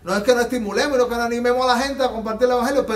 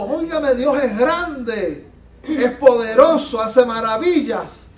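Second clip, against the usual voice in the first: excited crowd; 6 dB louder, slower than usual. Retold or imitated. Crowd of converts voiced praising God.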